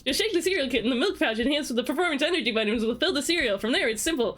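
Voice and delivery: fast robot car voice; Blur from Transformers. Retold or imitated. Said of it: "I'm gonna read it like Blur from Transformers".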